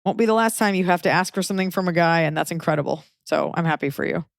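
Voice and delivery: talking while lying in bed; relaxed, lying flat in bed. Real, not acted. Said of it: "I sound weird 'cause I'm laying down".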